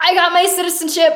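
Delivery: mock thrilled, high, excited scream. Telling how they ran upstairs to everybody with the news, retelling excited screaming. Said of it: "Literally screaming".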